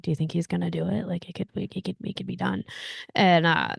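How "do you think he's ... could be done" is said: hushed, partly voiced imitation of whispering; retold whispering. Fan recalling whispers to a friend during the game, hushed retelling. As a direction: drop your voice as if confiding to a seatmate. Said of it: "it was kinda like you start whispering".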